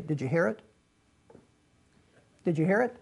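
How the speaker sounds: hushed imitation, letting the question hang; retold preacher's whisper. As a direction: drop your voice to imitate a preacher's quiet aside. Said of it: "He'd just stop and whisper".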